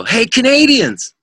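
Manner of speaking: high, drawn-out hallway holler; retold shout to get strangers to turn round; calling out. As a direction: holler it down the hall, long and high.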